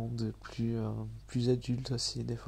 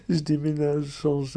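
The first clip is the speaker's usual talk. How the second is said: laughing self-mockery; 3 semitones higher, 8 dB louder than usual. Real, not acted. Se moque de lui-même en riant.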